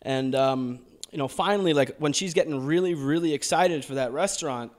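speaking in a put-on American accent; an Australian doing an American accent. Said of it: "You did a hell of a job in that American accent".

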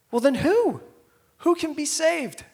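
high, loud astonished voices; amazed disciples. Retold or imitated. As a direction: cry out in disbelief as the stunned disciples.

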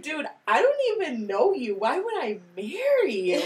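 loud mock outrage; incredulous brush-off. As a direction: scoff at a stranger's proposal. Imagined reply to sudden proposal.

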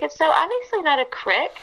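CREEK said as "crick", high-pitched protest; mock the short vowel in CRICK, exasperated; Southern CRICK. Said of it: "when they call it a crick".

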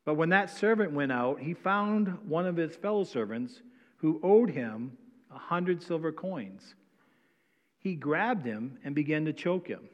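formal public reading of scripture. Acted. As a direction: read the Bible text out with weight. Pastor reads scripture passage aloud.

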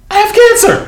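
high-pitched retold exclamation; mock outcry. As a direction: leap into a very high cry. Retold sudden announcement, laughing delivery.

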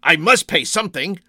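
halting, repeated first word; stammering. A narrator's reading. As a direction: stumble into a bewildered protest. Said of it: "he stammered, his anger draining away".

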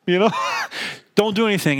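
a light command as if to a dog; firm sit, as to a golden retriever; father tells toddler to sit like a dog. Retold or imitated. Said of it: "almost like to my golden retriever dog".

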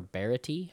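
"Barati" as BEAR-uh-tee; alternative pronunciation. Shown as a demonstration. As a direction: stress the first syllable of "Barati", like bear. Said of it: "I don't know how to say it".

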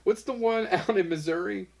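put-on high, slow, hammy Russian accent; mock Russian accent. Continues Russian accent bit.

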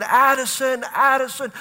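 mock yelled name; retold frantic calling. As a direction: call her name across the lot. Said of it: "We're screaming".

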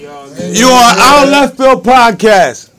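spelled-out slow announcement, "You on Out of Left Field podcast" drawn out word by word; slow for the caller. Real, not acted. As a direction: say it slowly so the caller catches it. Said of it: "I'm sorry, say it again?".

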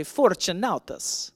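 playful Italian accent on Fortunatus. Shown as a demonstration. Pastor getting the congregation to say a name, Italian accent. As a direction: give Fortunatus a showy Italian lilt. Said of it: "Now in your best Italian accent".

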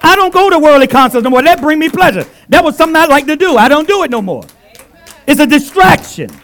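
loud, fast, high testimony; fervent testimony. Real, not acted. Preacher to church, loud and fast confession. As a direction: rush it out with fervor.

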